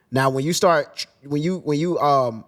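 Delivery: halting, restarting the phrase; stuttering. Real, not acted. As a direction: stumble over the words, searching. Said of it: "that's why I'm stuttering".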